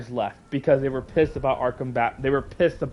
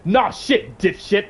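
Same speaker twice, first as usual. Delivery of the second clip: high, scornful comeback; irritated, pitched-up retort; 3 semitones higher, slower than usual. Real, not acted. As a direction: fire back at a smartass with contempt. Snapping back at imagined smartasses.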